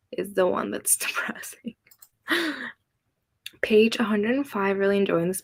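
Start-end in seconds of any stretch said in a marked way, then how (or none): 0.1-1.8 whispered with a laugh; whispering laugh. Real, not acted. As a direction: laugh under your breath.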